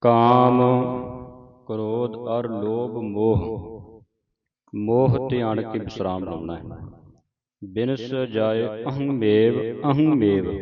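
slow, drawn-out verse reading; scripture recitation. Shown as a demonstration. Teacher models the salok for the congregation, slow recitation. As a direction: recite each word with long held vowels.

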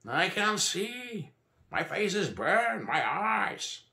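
high-pitched, drawn-out panicked wail; squealing. A narrator's reading. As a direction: squeal in agony like a stuck pig. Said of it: "Stop squealing like a stuck pig".

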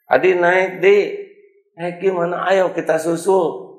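high, loud urging; mother urging the boy to chase the bus; eager mother. Acted. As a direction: hurry him into the car.

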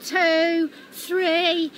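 count-in. Acted. Now, on three.

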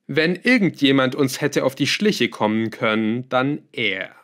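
lightly voiced villain recounting his scheme; a hint of a self-assured schemer; scheming villain. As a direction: tell it with deliberate, emphatic relish. Melchior tells his scheme.

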